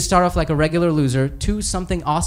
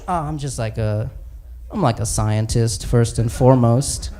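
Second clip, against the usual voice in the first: sheepish Bruce Banner; 6 semitones lower than usual. Acted. Banner voiced low, sheepish.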